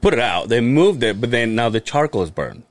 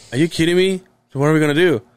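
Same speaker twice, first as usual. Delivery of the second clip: higher-pitched mock exasperation; exasperated disbelief; 5 semitones higher, much faster than usual. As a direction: imitate an upset girlfriend demanding answers. Acted upset girlfriend hearing bad news.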